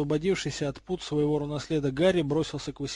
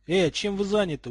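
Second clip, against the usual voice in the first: raised, puzzled query; surprised question; 5 semitones higher, 4 dB louder than usual. A narrator's reading. Jeremy notices what they are doing, surprised. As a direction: ask it in mild astonishment. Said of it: "удивлённо спросил Джереми".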